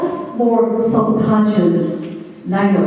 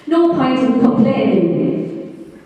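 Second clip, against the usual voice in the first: mock moaning; 4 semitones higher, slower than usual. Mocking negative complaints.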